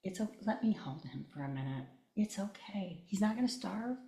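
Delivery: calm her down gently; lightly voiced gentle reassurance; kind soothing aunt. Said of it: "she was so kind".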